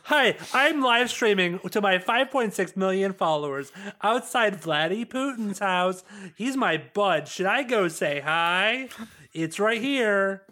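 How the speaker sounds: lightly voiced influencer livestream; hint of a bubbly streamer greeting fans; Sniper Wolf voice. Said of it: "Sniper Wolf".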